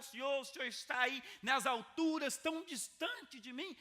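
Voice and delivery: a lonely believer calling up to a far-off God; distant plaintive prayer. Acted. A believer praying to a God who feels distant, plaintive and slow.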